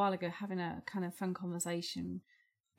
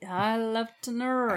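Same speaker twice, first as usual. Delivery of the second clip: Morgan Freeman impression; 3 semitones higher, 3 dB louder than usual. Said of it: "Morgan Freeman when he does".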